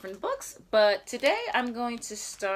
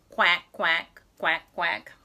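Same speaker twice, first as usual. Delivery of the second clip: light mock quacking; duck quack; 4 semitones lower, 3 dB louder than usual. Reading to a toddler, playful duck quacks. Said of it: "What sound do her babies make?".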